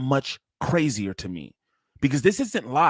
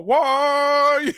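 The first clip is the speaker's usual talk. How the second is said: laughing; 11 semitones higher, 4 dB louder than usual. Real, not acted. Laughing at clip, high squeal.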